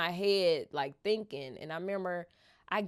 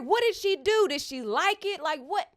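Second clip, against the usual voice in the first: excited; 8 semitones higher than usual. Retold or imitated. Excited retelling fan reaction.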